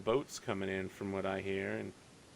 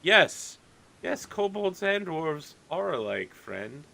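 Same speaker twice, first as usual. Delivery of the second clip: sideways sarcastic innkeeper; 6 semitones higher, slower than usual. Acted. Innkeeper humoring the odd player, lightly sarcastic. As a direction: humor him with a knowing sideways tone. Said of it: "looks sideways at you and says".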